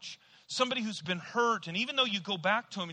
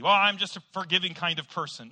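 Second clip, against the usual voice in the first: smug self-praise; 4 dB louder than usual. Retold or imitated. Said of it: "No, you're full of baloney".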